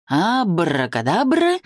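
slow, showy magic word; kids party magician. Acted. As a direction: announce it like a stage conjurer. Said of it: "Он произносит, как фокусник".

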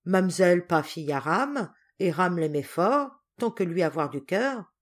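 understated, moved declaration; a touch of heartfelt emotion; tender. Acted. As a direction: speak with gentle devotion. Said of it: "Ram attendri".

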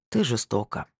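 на выдохе, огорчённо; тихо и расстроенно. Acted. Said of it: "выдохнул он как-то расстроенно".

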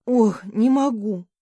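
a slow, out-of-breath sigh after long laughter; breathless exhale. A narrator's reading. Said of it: "выдохнула я, переводя дыхание".

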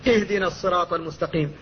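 اهدنا opened with a clear, thin hamza; light hamza demo. Shown as a demonstration. Teacher models starting the verse: light hamza in "اهدنا". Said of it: "فانطق بالهمزة هكذا".

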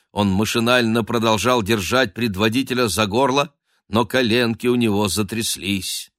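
plain reading voice

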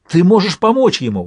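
high, hopeful cry; hopeful exclamation. A narrator's reading. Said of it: "воскликнула Этта обнадёженно". (высокий обнадёженный возглас)

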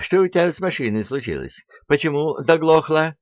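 fast, high shouted demand; yelling. A narrator's reading. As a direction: yell at the hapless mechanic. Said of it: "заорал он на незадачливого механика".

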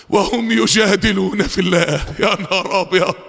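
low-pitched, incredulous lament; hushed dismay. Real, not acted. Preacher appalled that people dispute God, low dismayed voice. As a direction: drop the pitch in appalled disbelief.

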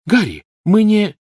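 high, pleading cry; desperate protest. A narrator's reading. Hermione protesting to Harry, desperate high cry. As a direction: protest anxiously.

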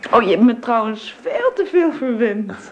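spoken through a laugh; playful scolding, laughing. Acted. Laughing thanks for presents. (lachend verwijtend)

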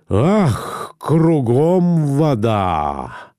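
slow despairing sigh. A narrator's reading. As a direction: drag it out in despair. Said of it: "вздохнул он".

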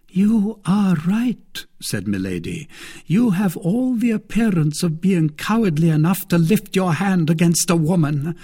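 scornful. Acted. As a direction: taunt him as a coward.

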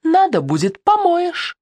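sudden very high yell. A narrator's reading. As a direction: yell it at him, shrill on the last word. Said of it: "Ксюха на него заорала".

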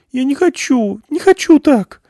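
high, loud, crying protest; tearful outburst. Acted. Irina crying at the thought of them dying, high tearful protest. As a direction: break into tears refusing. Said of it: "снова потекли слёзы".

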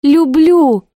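high, loud single word; passionate cry. Acted. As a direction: throw the word at him. Sister's repeated outcry.

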